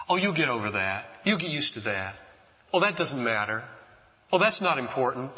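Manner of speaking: brushing it off, quick and careless; glib and quick. Retold or imitated. Parent at bedside dismissing a child's doubt, glib and quick. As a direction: toss it off lightly, like it doesn't matter. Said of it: "say in a glib and quick way".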